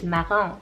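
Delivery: "marron" said as the French word; French pronunciation. Shown as a demonstration. Vlogger giving the French origin of Maroon, "marron" in French pronunciation. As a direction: give "marron" its French sound. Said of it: "derived from a French word".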